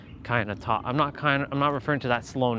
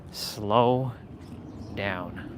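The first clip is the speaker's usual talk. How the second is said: drawn out; 4 semitones lower, 4 dB quieter than usual. Shown as a demonstration.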